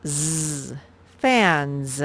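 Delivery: "Z" as a long buzz, then "Fans" with that buzzed ending; "Fans" said slowly as fan-zzz. Shown as a demonstration. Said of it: "the ending S spells Z".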